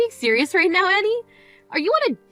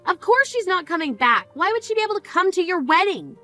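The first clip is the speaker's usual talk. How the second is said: higher, incredulous anger; stunned fury at her selfishness; outraged disbelief; 5 semitones higher than usual. Acted. Sister scolds sister at mother's funeral, higher outraged disbelief.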